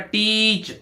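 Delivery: "टीच" with a drawn-out ee; long ee sound. Shown as a demonstration. Teacher showing that EA makes a long ee, "टीच" held long. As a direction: stretch the vowel in "टीच". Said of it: "ई ए से बड़ी की मात्रा".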